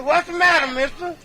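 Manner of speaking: a hint of a sweet-talking woman; lightly voiced Mahogany asking; lightly voiced big woman.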